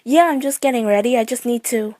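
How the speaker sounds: high, loud forced chatter; fake cheery voice. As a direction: act casual while scared stiff. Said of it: "My voice was too high-pitched and fake".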